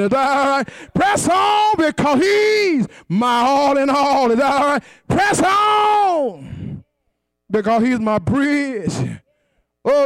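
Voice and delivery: chanted, shouted whooping sermon; preaching at full force. Acted. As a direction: ride the rhythm of a whooping preacher.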